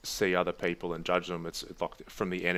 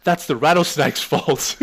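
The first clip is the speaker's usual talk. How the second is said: excited rant; 6 semitones higher, 9 dB louder than usual. Real, not acted. Laughing excited rant about rattlesnake.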